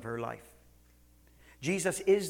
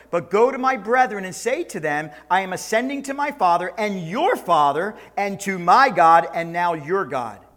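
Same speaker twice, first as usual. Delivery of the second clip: louder, slowing proclamation; proclaiming; 4 semitones higher, 9 dB louder than usual. Acted. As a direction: proclaim it, slowing on the last words. Preacher voicing Jesus' proclamation.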